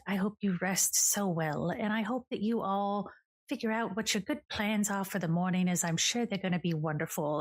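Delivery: lightly voiced smooth charmer; a hint of a polite gentleman host; Liam's voice. A charming host reassuring the ladies, lightly voiced. GM voicing Liam NPC.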